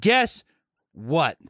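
mock teacher teasing the class; high "Guess". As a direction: pop the first word up. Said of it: "She says that".

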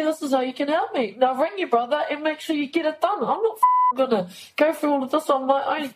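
high, loud, urgent retold pleading; desperate plea. The speaker retells begging sister-in-law to call Chris, loud and desperate. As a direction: beg her hard, then order her to act.

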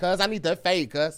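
nasally Los Angeles street talk; LA accent. Shown as a demonstration. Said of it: "That's L A".

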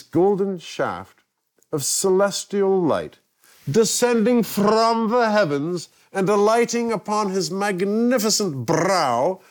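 high, slow, grandiose proclamation; grandiose mock-epic. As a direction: proclaim it like a heavenly vision, drawn out. Hamming up a grandiose description.

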